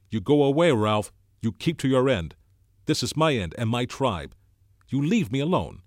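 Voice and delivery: loud, high shout over a jeering crowd. A narrator's reading. Jack driving Ralph off his end, loud high shout. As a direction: bellow him off your territory. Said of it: "Jack shouted above the noise".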